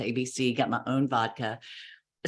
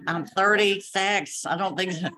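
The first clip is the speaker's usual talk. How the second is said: indignant retort; 5 semitones higher than usual. Retold or imitated.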